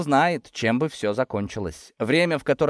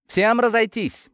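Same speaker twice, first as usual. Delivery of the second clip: raised, drawn-out commanding shout; pressing command; 12 semitones higher, 4 dB louder, slower than usual. A narrator's reading. Narrator orders the workers to disperse, commanding voice. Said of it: "надавив на них голосом".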